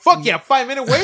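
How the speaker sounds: high, laughing mock excitement; excited rider. Rider sees the ride has reopened, excited. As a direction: act out delight at a lucky break. Acting out joy at short queue.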